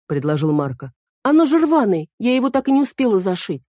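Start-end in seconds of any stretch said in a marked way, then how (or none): 1.2-3.6 put-on high, indignant young girl correcting him; girl Эль voice. A narrator's reading. Эль jumps in to correct Марко, high and indignant. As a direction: pitch it up as the fussy girl fairy. Эль complains dress torn.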